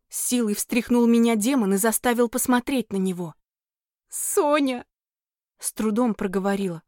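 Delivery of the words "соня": high, tearful name; choking on tears. Acted. Heroine answers the demon, choking on tears. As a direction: gasp the name through tears. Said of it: "захлёбываясь слезами".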